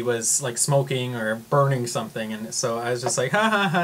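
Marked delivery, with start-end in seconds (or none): 3.3-3.8 fake laugh. Fake laugh at the weird smell.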